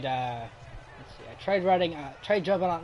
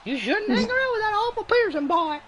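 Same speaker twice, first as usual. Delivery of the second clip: high, louder prim scolding mother; strict parent voice; 4 dB louder than usual. Retold or imitated. Imitating a strict parent forbidding a bad friend, high prim voice. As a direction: lecture like a strict, disapproving mom.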